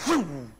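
quick "whoo" of someone bolting; imitated whoosh. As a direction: whoosh like a man fleeing. Imitating man running off.

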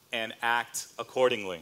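fighting back tears on the last words; choked up. Real, not acted. Pastor moved while preaching on obedience, choked up. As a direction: voice catching with real emotion.

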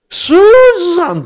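sudden high calling shout; calling her sister by name. Retold or imitated. Older sister calling out to Susan, a sharp high shout.

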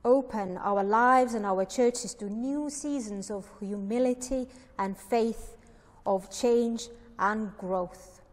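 deliberate, emphatic opening address to God; solemn, projected prayer reading. Real, not acted. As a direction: read a church prayer out firmly, phrase by phrase. Reads out a written prayer.

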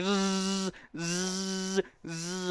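hummed zzz like a brain beam; mock mind-power buzz. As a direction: buzz out psychic energy. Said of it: "I was doing it with my mind".

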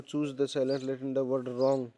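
each word read out slowly and clearly; slow dictation. Shown as a demonstration. Teacher reading the question slowly to the class.

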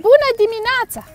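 cows greeting. Acted. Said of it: "Vacile răspund".

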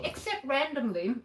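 talking through a mouthful; words around a bite of food; mouth full. Real, not acted. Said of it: "I'm talking with my mouth full".

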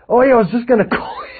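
fake-friendly agent. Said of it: "I rang a real estate agent".

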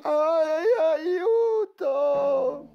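high, loud cry for help; frightened cry. Acted. Boy shown a third monster face, crying for help. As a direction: yelp in fright.

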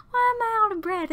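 high, laughing, out of breath; laughing breathless. Real, not acted. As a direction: laugh through the question, winded. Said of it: "I'm out of breath".

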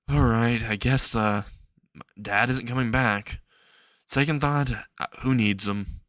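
understated dejected thought; a touch of gloom, trailing down; resigned inner voice, mildly downcast; depressed. Acted. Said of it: "he thinks in a depressing tone".

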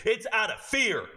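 usual speaking voice

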